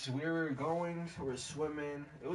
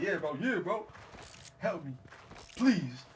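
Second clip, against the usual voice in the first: raised-pitch acted begging; pleading for help; 5 semitones higher than usual. Swimmer begging the lifeguard to help, mock desperate plea. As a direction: plead urgently, as if going under.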